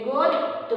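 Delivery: "গদ্য" split into god, do; doubled consonant. Shown as a demonstration. Teacher repeats the doubling example in two syllables. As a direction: pause between the halves of "গদ্য". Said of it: "দ্বিত্ব উচ্চারিত হচ্ছে".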